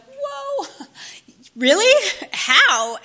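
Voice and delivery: high breathy gasp of disbelief, then a loud whispered really; stunned, almost whispering; amazed whoa. Retold or imitated. Hearing her old friend is sober, amazed whisper.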